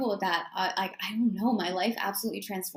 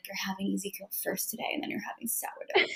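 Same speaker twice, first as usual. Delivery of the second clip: soft inner voice; 5 dB quieter than usual. Retold or imitated. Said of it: "my intuition will be like".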